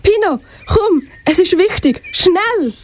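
urgent swallow calling her friend; excited calling. Acted. Swallow wakes her friend, excited calling. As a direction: call out eagerly, hurry her up. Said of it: "die aufgeregt ruft".

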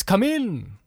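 lightly voiced high call; exclaiming ghost. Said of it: "exclaimed the ghost".

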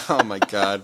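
ordinary talk

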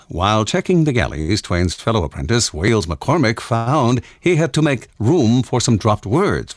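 lightly put-on announcer read, measured. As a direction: read it out like an announcer, slightly hammed-up. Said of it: "in an announcer voice".

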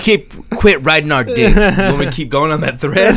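high, loud mock voice; high goofy voice. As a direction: ham it up in a squeaky voice. Jokey repeat of his line.

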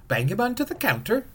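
high brisk shopkeeper witch. A narrator's reading. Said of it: "said the witch".

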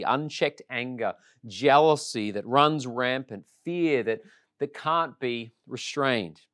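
measured pastoral sermon voice; preaching. Acted. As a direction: appeal to the congregation like a preacher. Preaching opening appeal to congregation.

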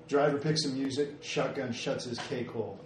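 menacing glare. Acted. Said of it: "give him a glare and go".

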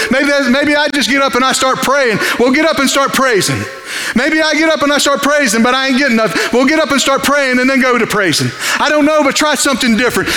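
rising preaching fervor. Acted. Preacher rising in pitch, voicing listener.

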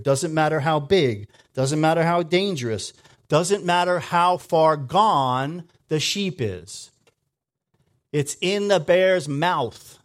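preacher building to a climax; building preaching. Acted. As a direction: climb to a fervent peak.

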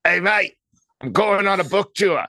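cheery Aussie mate impression, Australian accent; breezy Australian accent, playfully imitating an old friend; Brett King Aussie accent. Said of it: "my best Brett King accent".

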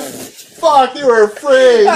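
high, giggling realization; a guy cracking up at his own bluff; laughing mock thought. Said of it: "I'm like".

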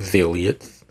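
zealots said as ZEEL-yuts. Real, not acted. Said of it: "There's no Y in that word".

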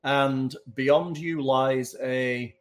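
slow scene setting with drawn-out pauses; measured storyteller's delivery; game master narration. Acted. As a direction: reveal the cavern slowly, piece by piece.

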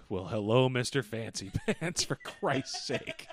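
sarcastic put-down, drawn out at the end; teasing, exasperated jab; mocking greeting. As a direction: greet the show-off with mock awe. Mocking the boastful kid.

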